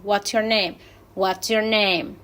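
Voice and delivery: "name" falls at the end of the question; falling intonation. Shown as a demonstration. Teacher showing students a WH question, falling on "name". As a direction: start on "What's", settle down onto "name". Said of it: "Es descendente".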